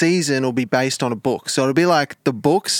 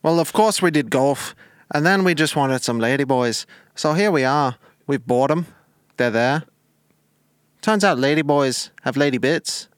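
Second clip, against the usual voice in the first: lightly put-on regional lad voice; mock interview witness in wobbly Bristol-Irish; Gary, matter-of-fact caller; 3 semitones higher than usual. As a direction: tell it deadpan as an accented interviewee. Plays Gary in mock phone interview.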